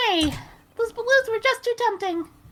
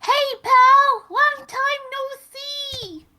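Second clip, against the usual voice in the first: loud cheery greeting, then slow; hearty detective voice; 3 semitones higher, 5 dB louder, much slower than usual. Acted. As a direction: call out like a jolly cop. Voicing Gumshoe, character greeting.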